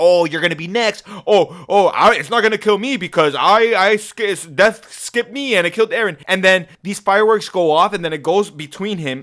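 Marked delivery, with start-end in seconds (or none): 0.0-6.2 play-acted mad, angry nagging, bitchy tone. Retelling a character who is super mad at another: imitating someone angrily bitching. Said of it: "bitching at her and saying".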